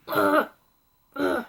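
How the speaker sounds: exasperated "ugh", sighed out; overwrought groan. Real, not acted. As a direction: groan at being lost for words. Overwhelmed groan over the book.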